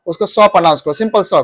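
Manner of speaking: सौ, plain s, no hiss; simple s sound. Shown as a demonstration. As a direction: say सौ lightly, no extra air. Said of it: "कोई जोर नहीं लगाना है".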